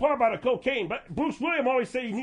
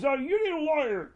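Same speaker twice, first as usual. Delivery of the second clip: Bruce Williams impression; 4 semitones higher than usual. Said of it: "Talk about Bruce Williams".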